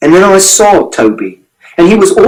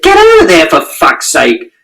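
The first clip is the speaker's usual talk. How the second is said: put-on man on the platform yelling at a boy on the rails, angry. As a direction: bark it at the kid, then growl the end. Stranger yells at boy on tracks.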